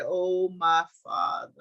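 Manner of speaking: slow, drawn-out cry of grief; a mild, slow lament; mournful lament. Acted. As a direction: stretch it out like a grieving son. Joseph weeping for his father.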